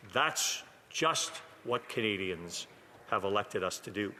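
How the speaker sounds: slow, deliberate sarcasm on the first words; sarcastic. Real, not acted. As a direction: draw out the opening with dry sarcasm. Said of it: "I say very sarcastically".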